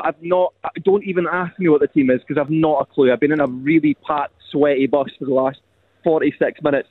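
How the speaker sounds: broad Dundonian accent; thick local Dundee voice. Real, not acted. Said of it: "He doesn't speak that Dundonian when he's in here".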